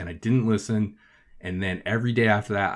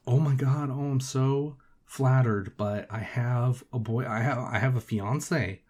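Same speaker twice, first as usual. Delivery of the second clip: mock girl voice; 3 semitones higher than usual. Girl turns him down.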